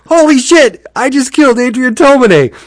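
high, loud horrified exclamation; acted-out panicked disbelief; shocked outcry. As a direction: cry out in mock horror at what you did. Acting out driver's second horrified realisation.

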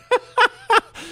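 short high burst of laughter; real amused laugh. Real, not acted. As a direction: cackle mid-story. Laughs at the story.

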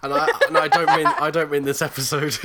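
loud, fast, laughing through it; giggling as you explain. Real, not acted. Laughing while talking.

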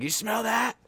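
high yell without full volume; retold rallying call. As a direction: egg on the teammates in a held-back shout. Retold rallying yells to his teammates.

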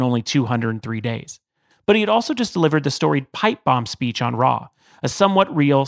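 steady scripted host narration; podcast intro read. Acted.

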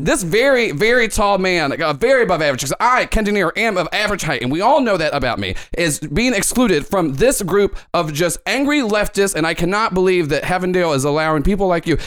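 lightly voiced indignant pundit; a hint of a short man talking tall; Ken De Niro reporter voice. Host complaining about the Fun Bunch, lightly pompous anchor. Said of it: "he goes".

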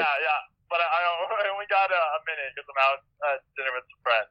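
heard through a phone speaker; tinny phone voice on speaker; on speakerphone. Real, not acted. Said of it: "Yo, you're on speaker".

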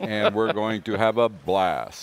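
slow, low radio host voice; Bob Moore radio voice. Pretend. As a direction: keep the lazy DJ drawl going. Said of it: "my Bob Moore radio voice".

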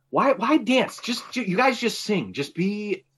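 high-pitched mock plea to the band; exasperated pleading.

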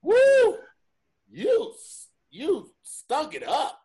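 loud mocking whoop then a slow taunt; mock Tommy Davidson whoop. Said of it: "Tommy Davidson was like".

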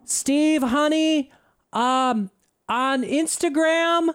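high-pitched rich wife teasing her husband Steve; mocking Louise Linton. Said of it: "Louise Linton was just like".

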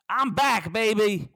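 triumphant high crow; gloating. Real, not acted. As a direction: crow about being back. Gloating return boast.

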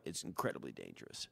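mock French accent, low and soft; quiet Cousteau in a French accent. Cohost imitates Cousteau in a French accent. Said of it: "He said that in a French accent".

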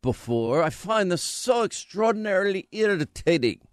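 fussy aggrieved senator; McConnell voice. Retold or imitated. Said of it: "should I do that voice".

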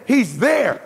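loud, emphatic cry of he's there; shouted proclamation; exclaiming. Real, not acted. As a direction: call it out to the room. Preacher exclaims presence.

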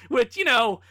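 squeaky laugh breaking through. Real, not acted. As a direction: laugh it out while talking. Laughs through uncomfortable remark.

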